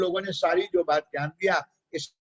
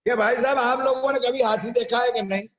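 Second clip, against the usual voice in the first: lightly acted mahout, pitched higher; storyteller's higher-pitched hailing question; elephant driver hailing; 5 semitones higher, 4 dB louder than usual. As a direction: call out to the blind men with a raised voice. Mahout hails six blind men.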